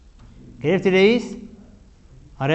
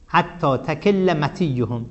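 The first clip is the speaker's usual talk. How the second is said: slow verse reading; 3 dB quieter, much slower than usual. Shown as a demonstration. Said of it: "اینجا حتی چه حتیه؟".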